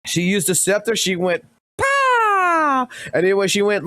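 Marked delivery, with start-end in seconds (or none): 1.8-2.9 a sudden squeaky high "Pah!" burst; mock spell blast. Streamer voicing Evelyn's scepter attack, squeaky high pop. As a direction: fire off a tiny high magic pop.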